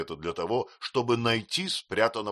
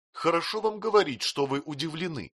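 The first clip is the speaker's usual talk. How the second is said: crying out; 8 semitones higher than usual. A narrator's reading. Mother protesting to stern husband, high cry. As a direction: cry out at him, stung. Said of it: "закричала матушка".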